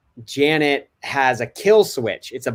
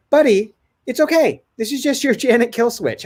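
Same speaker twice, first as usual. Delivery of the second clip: higher-pitched, soothing dad voice; calm reassurance; 9 semitones higher than usual. Retold or imitated. Dad settling his protesting son, calm. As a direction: gently talk a child down. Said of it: "I just stay calm".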